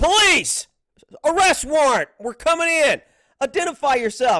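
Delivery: loud, forceful, barking shouts. Showing a whispering teammate how to announce police entry: screaming police commands. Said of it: "freaking scream".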